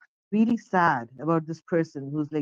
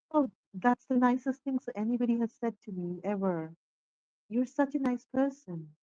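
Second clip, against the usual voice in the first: bright, higher, delighted thank-you; smiling delight; 6 semitones higher than usual. Acted. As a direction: beam as she gushes her thanks. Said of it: "she smiles and she says".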